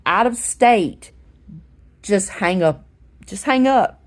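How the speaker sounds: mildly exasperated, pitch jumping up on each order; exasperated instructing. Retold or imitated. Caller telling shelter staff how to handle calls, exasperated instructing. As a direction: spell it out insistently, as retold advice.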